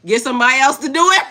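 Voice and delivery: fast and loud with a laugh; loud laughing brush-off; laughing retort. Real, not acted. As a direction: toss it off laughing. Loud laughing first take.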